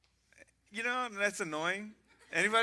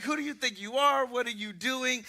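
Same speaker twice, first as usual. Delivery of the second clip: retold yelling cop; 6 semitones higher than usual. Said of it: "He's, he's yelling at me".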